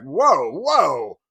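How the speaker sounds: loud retold "whoa"; alarmed intervention. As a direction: step in to halt a fight. Man stepping in between two people.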